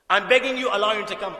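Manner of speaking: impassioned father's entreaty; passionate begging. Retold or imitated. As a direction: beg with sudden force. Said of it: "Look at the passion".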